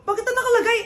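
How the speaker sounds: outraged shout. Acted. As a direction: shout at the fake phone. Shocked at fake gift.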